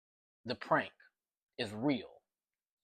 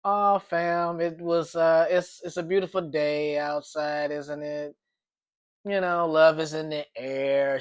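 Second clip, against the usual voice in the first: coy vague voice; 3 semitones higher, 4 dB louder than usual. Retold or imitated. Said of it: "She was being very vague".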